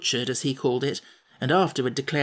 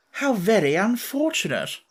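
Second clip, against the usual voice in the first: dismayed cry; 7 semitones higher than usual. A narrator's reading. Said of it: "cried the Wogglebug".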